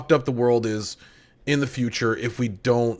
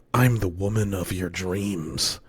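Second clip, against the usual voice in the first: sultry voice; 3 semitones lower than usual. Pretend. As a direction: purr it like a seductive AI. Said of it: "in the sultry voice".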